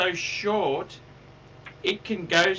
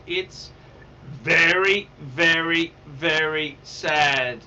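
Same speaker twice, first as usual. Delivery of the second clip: mock sadness; 5 semitones lower, slower than usual. Lamenting dead friend.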